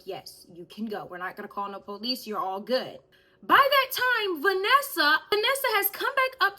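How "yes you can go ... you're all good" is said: lower, softer tired voice; fed-up manager. Retold or imitated. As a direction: sound worn out and done with it. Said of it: "so he's like".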